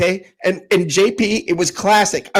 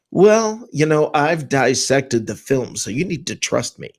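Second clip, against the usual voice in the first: passive condescension; 7 semitones lower than usual. Retold or imitated. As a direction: talk down calmly, imitating a self-styled expert. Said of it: "they speak passively, condescendingly with this".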